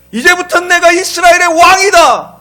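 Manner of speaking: high, booming declaration; loud proclamation. Acted. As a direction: proclaim yourself king to a whole nation. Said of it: "라고 선포해도".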